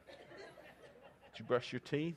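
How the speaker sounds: nagging parent. Pretend.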